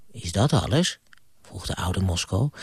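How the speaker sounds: storyteller voice, lively with character voices; bedtime story reading. Acted. Grandpa reading to a child at bedtime, gentle storytelling. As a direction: read it like grandpa at the bedside.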